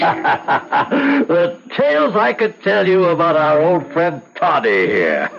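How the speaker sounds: slow words through a chuckle; mocking laugh in the voice; laughing while talking. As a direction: tease him and laugh as you go. Mocking drinker laughing at Toddy.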